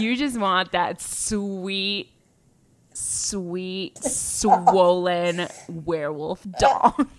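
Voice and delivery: mock seductive tease. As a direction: purr it out slowly to gross her out. Teasing friend with mock seduction.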